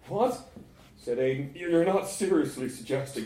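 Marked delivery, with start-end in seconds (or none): 0.1-0.5 high, loud, rising yelp of disbelief; shocked. Acted. Appalled at friend's suggestion. 1.6-3.2 appalled. Acted. Appalled at friend's suggestion.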